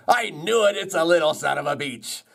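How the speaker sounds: high, triumphant mock outcry; gloating beech tree. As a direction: crow it high, as a joke character.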